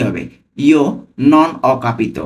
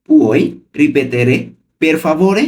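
পুই রিপেতেরে stretched slowly, then পের ফাভোরে; slow and clear. Shown as a demonstration. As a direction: spell it out slowly for learners. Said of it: "আমি কিন্তু ভেঙে ভেঙে বলছি".

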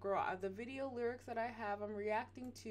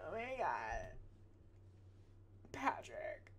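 halting, word by word with long gaps; typing aloud; 7 dB quieter, much slower than usual. Real, not acted. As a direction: say it slowly as you type the reply. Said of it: "I'm gonna say".

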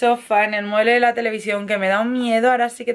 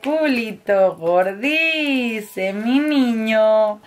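tender cooing; much slower than usual. Real, not acted. Mother cooing slowly at her baby son. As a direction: stretch each word lovingly.

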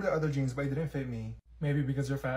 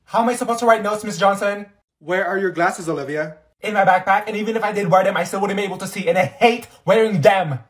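loud, high complaining; student arguing with teacher about glasses; loud whining complaint; 3 semitones higher, 10 dB louder than usual. Acted. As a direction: protest at the teacher.

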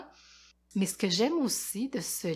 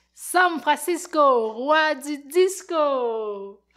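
louder, slow, proud announcement of the title; grand finale; 7 semitones higher, 8 dB louder, much slower than usual. A narrator's reading. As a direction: announce the king like a showman. (annonce triomphale, lente et forte)

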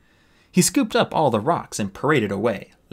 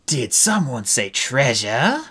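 bellowed; 2 semitones higher, slower than usual. Acted. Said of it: "Clay bellowed".

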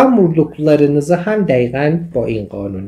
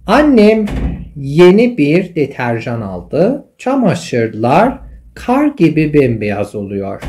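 slow reading; much slower than usual. Shown as a demonstration. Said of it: "teacher reads example sentence slowly".

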